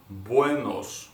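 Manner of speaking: "Buenos" drawn out slowly; slow model. Shown as a demonstration. Teacher slowly models "Buenos" for repetition. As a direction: stretch "Buenos" gently for learners. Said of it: "One more time".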